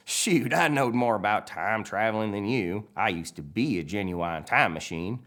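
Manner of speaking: lightly voiced boastful tow truck; Mater. Mater boasts to McQueen, lightly put-on character voice. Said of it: "And Mater says".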